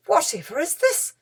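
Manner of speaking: breathless tired whisper; a pale, worn-out whisper in the dark. A narrator's reading. Peter whispering tired in the dark cave. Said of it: "sounding tired and pale".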